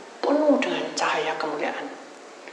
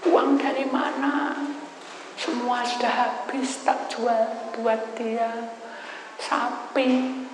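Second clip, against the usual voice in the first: weary lament; 6 semitones higher, much slower than usual. Retold or imitated. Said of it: "cerita sama saya".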